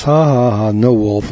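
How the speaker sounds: spoken ha-ha-ha, lightly imitating a boy; half-hearted pretend laugh, teasing the fooled crowd; mock laughing. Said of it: "the little boy laughs and laughs".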